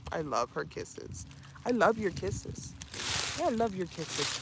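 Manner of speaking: soft, hushed affection; soft puppy talk. Real, not acted. Owner murmuring softly to her puppy during its kisses. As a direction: murmur to the dog giving kisses.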